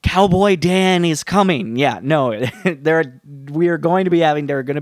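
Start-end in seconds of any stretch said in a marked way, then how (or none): 0.0-1.8 Steve Martin impression. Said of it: "I feel like Steve Martin in Parenthood".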